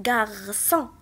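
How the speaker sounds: غارسون slowly, with a clear S in the middle; cedilla pronounced as S. Shown as a demonstration. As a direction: sound out غارسون for learners, cedilla as S. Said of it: "سي سي دي دائما كتنطق". (غارسون بشوية، السي سيدي كتنطق اس)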